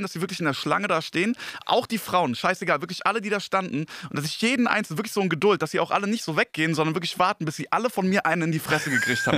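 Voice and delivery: high-pitched angry rant; worked-up podcast rant; ranting in a rage. Real, not acted. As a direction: pour out the fury, building and pressing on. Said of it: "ich bin grad voll in Rage".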